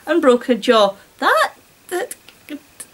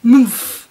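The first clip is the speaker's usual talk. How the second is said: muffled growl; 4 dB louder than usual. Acted. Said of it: "Farula growled".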